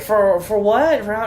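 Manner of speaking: imitating a puzzled restaurant lady; bad Asian accent. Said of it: "it's a bad Asian accent".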